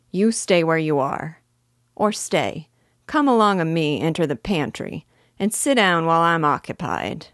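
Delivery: bossy thief, heavy Cockney; gruff Cockney burglar. Acted. The burglar ordering Editha into the pantry, gruff and loud.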